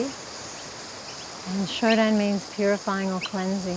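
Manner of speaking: calm, even-toned meditation teacher; unhurried meditation instruction, leaving space to breathe; guided meditation. Real, not acted. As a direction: guide them gently through breath practice, with long pauses.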